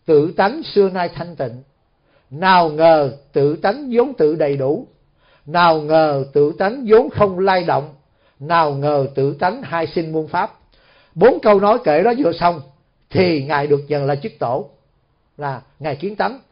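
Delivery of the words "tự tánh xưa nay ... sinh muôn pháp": slow, measured recital of a verse; verse recitation. Acted. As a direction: recite each verse line evenly, pausing between lines.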